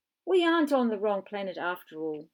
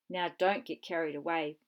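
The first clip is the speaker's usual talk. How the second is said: warning; 4 semitones lower than usual. Acted. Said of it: "warned the professor".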